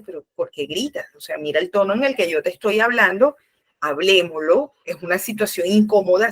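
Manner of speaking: lightly acted calm, soothing reply; soft answer. A parent calmly answering a shouting child, mild soothing. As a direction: talk someone down gently. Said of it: "una manera con una blanda respuesta".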